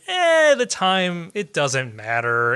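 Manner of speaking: drawn-out, slow dismissive shrug. Retold or imitated. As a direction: wave it away slowly, not caring. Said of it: "ones that are just like".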